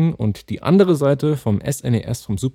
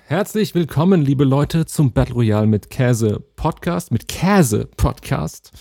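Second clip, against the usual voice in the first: slower intro; 2 semitones higher, slower than usual. Shown as a demonstration. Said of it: "du sagst das auch zu schnell".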